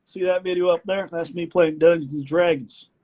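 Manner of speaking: a hint of a boastful grandfather; lightly voiced grandpa pointing at a video; proud grandpa voice. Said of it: "I was gonna be like".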